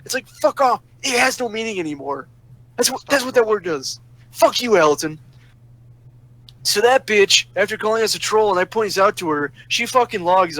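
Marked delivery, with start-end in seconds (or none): 0.1-5.2 higher-pitched, fed-up dismissal; indignant and worked up; exasperated rant. Real, not acted. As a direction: throw it out in real irritation. Heated rant about the word troll.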